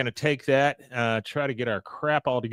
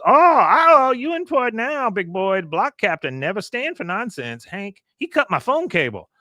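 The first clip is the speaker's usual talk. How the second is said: high-pitched mock outrage, loud opening cry; Con yelling; 9 semitones higher, 5 dB louder than usual. Neighbor complaining to Hank about a cut cable, high yelling. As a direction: burst out loud, then keep complaining high. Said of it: "Con is yelling at Willie".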